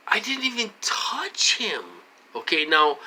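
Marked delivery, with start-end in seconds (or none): 0.1-1.8 whisper. Real, not acted. Insisting he did nothing.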